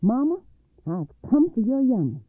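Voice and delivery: loud, high demand from a monster; yelling out. A narrator's reading. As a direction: yell it through a shut door. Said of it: "he banged on it and yelled out".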